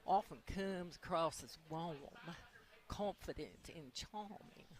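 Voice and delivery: lightly put-on British lilt, stretched words; slightly British. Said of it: "She went a little British there".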